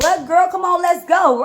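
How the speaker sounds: high, loud rallying cry to a friend; amped girl, let's ride; fired-up hype. Retold or imitated. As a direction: pump her up to go handle it. Urging cousin to go fight.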